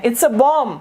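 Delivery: "bomb" said as bom; no B at the end of "bomb"; silent final B. Shown as a demonstration. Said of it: "इसका कोई sound नहीं है".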